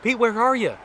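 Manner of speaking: high, loud hollered call. Retold or imitated. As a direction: call someone back from far off, pitch way up. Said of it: "kind of call me back".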